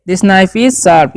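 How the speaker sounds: very slow, word by word, for learners; slow dictation pace; slow model sentence. Shown as a demonstration. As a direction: spell it out slowly for the class. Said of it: "teacher models English sentence".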